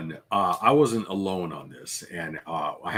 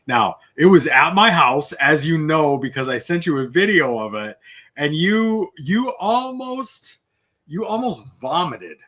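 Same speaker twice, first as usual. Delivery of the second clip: loud and high, words tumbling out with excitement; getting louder and higher, reliving the big reveal; excited; 6 semitones higher, 6 dB louder than usual. Real, not acted. Telling his friend how he almost vomited over the gift, loud excited climb.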